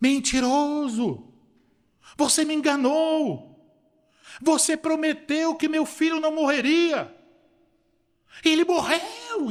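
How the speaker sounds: very high, acted-out anguished, desperate screaming. Speaker retells what a woman in the parking lot screamed, imitating a desperate scream. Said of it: "E ela gritava desesperadamente".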